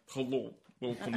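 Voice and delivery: put-on thick Russian accent, tour guide. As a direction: greet them like a Russian guide. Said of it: "Is that your Russian accent?".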